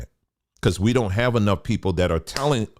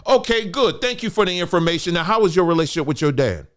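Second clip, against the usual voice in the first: dry mock politeness; 7 semitones higher than usual. Mock reply to a lecturer.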